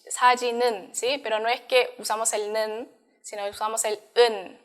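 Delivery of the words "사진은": 사진은 run together as sa-ji-neun; 사진은 said with a "neun"-sounding ending; linked pronunciation. Shown as a demonstration. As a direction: carry the n of 사진은 into its last syllable. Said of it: "cambia la pronunciación de".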